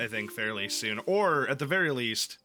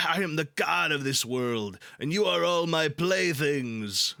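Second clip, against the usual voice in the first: villain boast; 3 semitones higher than usual. Retold or imitated. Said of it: "whatever Jack says".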